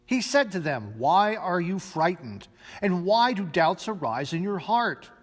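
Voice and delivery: measured liturgical reading of the gospel; formal reading of the gospel passage; scripture reading. Acted. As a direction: read the lesson to the congregation. Reads the gospel lesson aloud.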